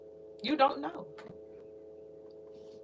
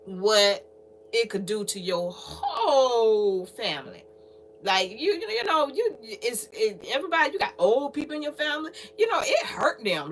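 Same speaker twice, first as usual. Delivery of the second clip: choked up. Real, not acted. Tearing up about family.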